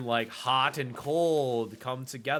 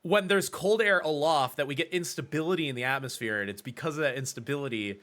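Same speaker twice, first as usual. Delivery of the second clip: overexplain like it's painfully obvious; aggressive explaining; 2 semitones higher, 3 dB louder than usual. Pretend. Weather nerd mocking himself, aggressively over-explaining thunderstorms. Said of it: "aggressively explaining".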